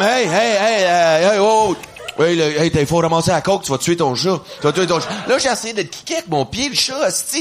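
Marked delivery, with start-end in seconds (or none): 0.0-3.6 loud alarmed hey hey, yelling at her; panicked yelling. Retold or imitated. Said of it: "Je suis comme". 3.6-4.4 warning yell. Retold or imitated. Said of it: "Je suis comme". 4.6-5.1 repeated warning yell. Retold or imitated. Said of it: "Je suis comme".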